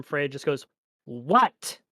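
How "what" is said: a distant shout; from another room. Acted. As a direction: call back from far off. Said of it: "from the other room".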